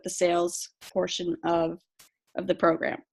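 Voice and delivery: hoarse, voice giving out; losing voice. Real, not acted. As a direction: voice cracking and going hoarse. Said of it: "Losing my voice".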